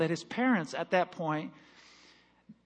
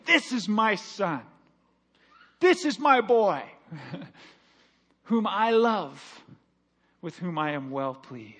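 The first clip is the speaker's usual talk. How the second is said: voice from heaven; 2 semitones lower than usual. Retold or imitated. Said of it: "the loud voice said".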